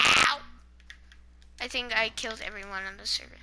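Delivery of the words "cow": loud, drawn-out yell; excited shout. Real, not acted. Kid showing blocks to viewers, excited shout. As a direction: yell the word out suddenly. Blurting out block guesses on camera.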